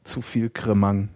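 tipsy. Real, not acted. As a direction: drawl it out a little tipsy. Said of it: "weil ich Knülle werde".

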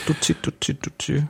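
put-on soft, high cooing to a baby; imitated goo-goo baby babble; mock baby talk. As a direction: coo it like silly baby talk. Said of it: "Zebrafinken Babysprache oder Baby-Babysprache".

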